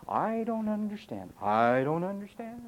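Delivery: mock stubborn chanting; mock repeated excuse. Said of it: "that's what I hear from people".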